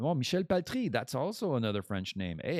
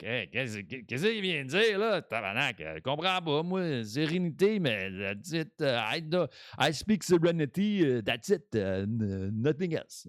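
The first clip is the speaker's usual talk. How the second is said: Quebec French speaker; 4 semitones higher than usual. Retold or imitated. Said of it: "'cause the French ones are like".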